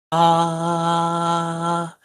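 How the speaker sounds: soft airy open "ah". Shown as a demonstration. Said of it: "more soft".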